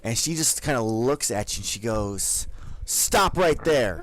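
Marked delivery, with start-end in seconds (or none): 2.8-4.0 stern guard halt. Acted. Guard halts the newcomer.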